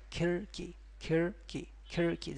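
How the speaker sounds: khirki with a flap like the American r; khirki, flapped tongue as in America; correct khirki. Shown as a demonstration. Teacher models khirki like America. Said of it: "Just like America".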